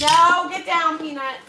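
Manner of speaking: firm call that drops away; scolding the dog. Real, not acted. Ordering the dog off.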